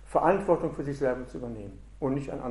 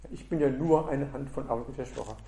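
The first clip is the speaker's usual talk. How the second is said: mock excuse, emphasis falling on "nur"; stress on NUR. Teacher voicing an excuse for laziness, stress on "nur". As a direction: lean on "nur" as a belittling qualifier. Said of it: "Betonung liegt auf nur".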